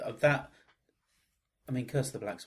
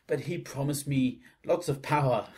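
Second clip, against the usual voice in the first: put-on stilted old movie melodrama; 3 semitones higher, 4 dB louder than usual. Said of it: "and he says".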